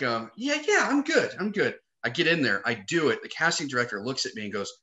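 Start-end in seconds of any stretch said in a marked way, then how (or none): 0.4-1.8 put-on high-pitched shot at an English accent; hint of an English accent, much higher voice; attempted English accent. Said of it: "I kinda sound like".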